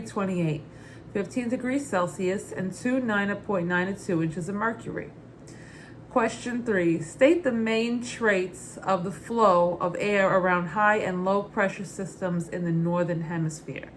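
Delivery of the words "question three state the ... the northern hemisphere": put-on Brooklyn accent. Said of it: "read the question in my Muddets Berry Brooklyn accent".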